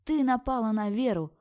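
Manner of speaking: high, loud, accusing yell; loud shout. Acted. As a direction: hit «Ты» hard and shout the rest. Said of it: "громко закричала".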